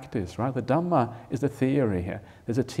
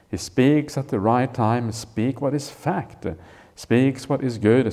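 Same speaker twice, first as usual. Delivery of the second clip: measured, louder recitation of the text; scripture reading; 3 dB louder than usual. Acted. Teacher reciting the sutta to students, measured and louder. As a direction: read the old passage out with weight. Reads the sutta passage aloud.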